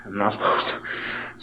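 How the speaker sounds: soft guilty whisper; whispered aside. Real, not acted. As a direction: whisper it like a confession. Guilty aside to camera about Mama.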